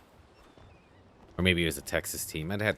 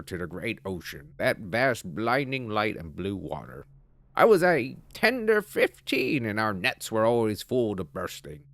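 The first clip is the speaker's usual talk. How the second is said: put-on British accent; 4 semitones higher than usual. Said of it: "use a British accent for the other voices".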